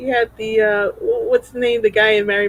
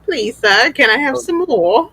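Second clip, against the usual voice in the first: lightly mocked British orphan begging; Oliver Twist. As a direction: plead in a put-on British urchin accent. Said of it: "like, Oliver Twisty".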